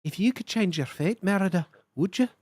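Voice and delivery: light Scottish lilt, close to her own voice; a first, gentle try at a Scottish lass; Scottish lass brogue. Acted. Streamer's first try at the Scottish lass for chat, light brogue. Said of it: "in the brogue of a young Scottish lass".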